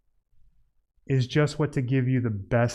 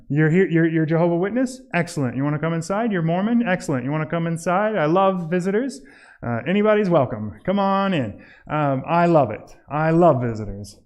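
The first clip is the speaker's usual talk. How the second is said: mock eager welcome; 2 semitones higher than usual. Mock eager homeowner welcoming visitors.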